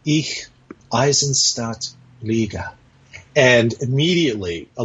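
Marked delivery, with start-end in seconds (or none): 0.0-2.7 lightly tender, as if proposing on one knee; mock marriage proposal to a friend, a touch tender; mock romantic proposal. Shown as a demonstration. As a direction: woo him with it, half-joking. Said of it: "if I changed my tone and I adopted a physical posture".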